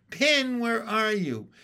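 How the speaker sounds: high, slow, drawn-out shout; loud searching call. A narrator's reading. Frog searching for Pin, calling as loud as possible. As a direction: call out slowly for someone lost. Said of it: "I called as loud as I could".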